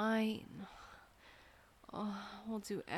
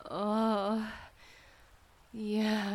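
loud moan; 8 dB louder than usual. Acted. Moaning during intimate roleplay.

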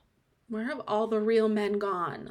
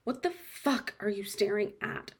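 normal talking voice

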